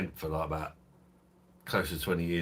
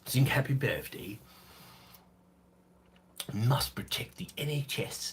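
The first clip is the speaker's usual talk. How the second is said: higher-pitched mock politician announcement; 6 semitones higher than usual. Streamer mocks pandemic advice, higher put-on politician voice. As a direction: play a politician issuing public health orders, pitched up. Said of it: "This boy says".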